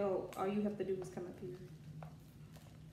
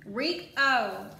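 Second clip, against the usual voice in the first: high calling come here; calling pet; 3 semitones higher, 5 dB louder, much slower than usual. Real, not acted. Calling her bunny Rico over, high coaxing call.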